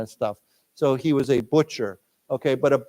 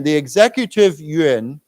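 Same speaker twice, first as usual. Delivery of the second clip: louder, slowed for repeating; teacher models the phrase for students, slow and clear; slow, clear model reading; 5 dB louder than usual. Shown as a demonstration. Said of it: "so again".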